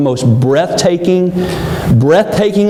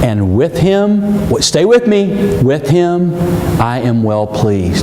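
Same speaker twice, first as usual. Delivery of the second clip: voice of God; 3 semitones lower than usual. Acted. Voice from the cloud speaks.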